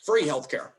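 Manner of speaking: slight punch on "free", as in a stump speech; Bernie Sanders. Shown as a demonstration. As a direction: lean lightly on "free healthcare" in a senator impression. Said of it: "He goes hard on certain".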